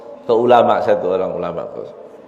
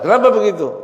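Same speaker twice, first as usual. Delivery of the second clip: surprised Pharaoh; 9 semitones higher than usual. Acted. Pharaoh asks the devil why.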